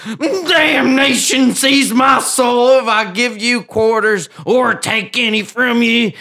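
loud, high, slow pirate shout. Acted. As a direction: bellow the curse like a drunk pirate. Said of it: "drank to him with these words".

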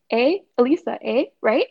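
lightly mocking, questioning tag-words; imitating pestering coworker. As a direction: mimic a coworker fishing for a response. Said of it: "what irritates me more is she'll be like".

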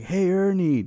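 high, loud friendly greeting; eager call-out. Retold or imitated. About to greet Ernie before being cut off, eager holler. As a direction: holler hello across to a buddy.

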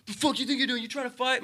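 high-pitched imitation of a belligerent guy; put-on indignant confrontation; mock angry challenge. Acted bar confrontation, other man.

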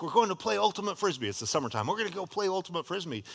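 lightly voiced excited teen; excited daughter. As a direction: burst in with the news.

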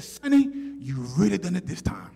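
lightly voiced scolding teacher; a hint of stern teacher; teacher's scolding. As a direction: imitate a teacher warning a pupil. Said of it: "she said to me".

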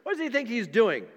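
put-on eager young David. Pastor voicing eager David ready to face the giant, high and excited. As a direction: pump it up like a kid ready to fight. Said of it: "David's just there with all this kind of enthusiasm".

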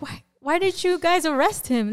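high-pitched incredulous question; startled protest, imitated; retold disbelief. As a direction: retell being taken aback, voice jumping up. Retold shocked question to police.

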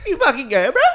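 loud, high bro voice; laughing macho taunt; mock tough guy. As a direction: sneer like a meathead bro.

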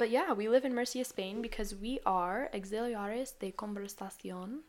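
Spanish pronunciation; Spanish accent. Pretend. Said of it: "That was my worst, best Spanish accent I have".

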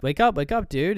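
urgent wake-up call, short of a full yell; retold yelling. Mia yelling for Daniel to wake up, mock yell. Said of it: "Mia starts yelling for Daniel to wake up".

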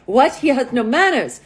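put-on indignant line in a light Russian accent. Russian model complains to matchmaker about her date, Russian accent. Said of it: "This is my best Russian accent".

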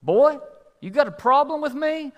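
high, loud confrontational challenge; angry trucker. Acted. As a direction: pick a fight as a big angry trucker. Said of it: "he's all mad".

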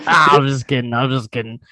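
light Pete Davidson voice; a hint of Pete Davidson; Pete Davidson impression. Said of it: "Pete Davidson's here".

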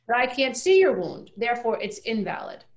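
rising indignation on the contrast; invalid stressed hard. Shown as a demonstration. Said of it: "contrast of valid and invalid".

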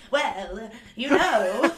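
lightly hammed-up Mid-Atlantic accent; worst Mid-Atlantic accent. Doing Katharine Hepburn instead of an American accent, mock Mid-Atlantic. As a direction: put on a bad old-Hollywood Mid-Atlantic accent. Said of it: "Just the worst mid, like, Mid-Atlantic".

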